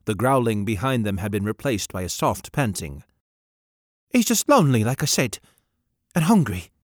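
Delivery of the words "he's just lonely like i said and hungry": put-on high, loud small boy announcing his name; boy calling out his name, high and loud; boy's high eager voice. A narrator's reading. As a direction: pipe up proudly as a young lad.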